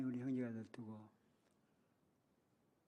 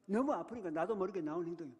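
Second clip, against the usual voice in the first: usual speaking voice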